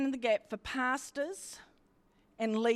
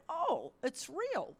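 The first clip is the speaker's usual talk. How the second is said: awed hush; 5 semitones higher, 5 dB quieter, slower than usual. Retold or imitated. Touching the dome in awe.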